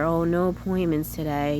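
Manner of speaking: a touch of disappointment, put on; sad. Shown as a demonstration. Reporting no appointments to protect herself, mildly sad. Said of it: "maybe a sad way".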